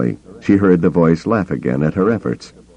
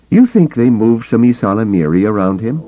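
sudden realization; 5 semitones higher, 4 dB louder than usual. Acted.

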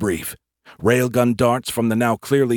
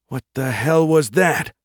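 high-pitched startled demand; alarmed question; 7 semitones higher, 4 dB louder than usual. Acted. Private reacting to flare overhead, alarmed.

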